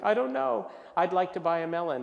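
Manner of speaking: loud, high, helpless protest; flustered customer. Acted. Customer answering a pushy melon clerk, flustered. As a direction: answer back as an overwhelmed buyer.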